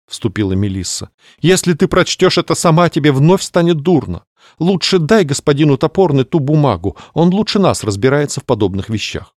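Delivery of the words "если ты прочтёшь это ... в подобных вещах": caring society lady. Acted. Melissa advises.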